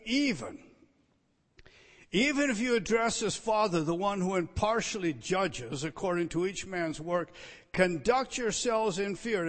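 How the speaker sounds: preacher's forceful reading of the verse; emphatic reading. Shown as a demonstration. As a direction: proclaim the verse with weight. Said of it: "Let me translate it for you".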